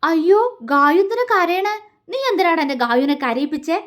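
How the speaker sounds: high, pouty upset demand; angry scolding. Acted. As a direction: scold a friend for making her cry. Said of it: "കലിപ്പോടെ".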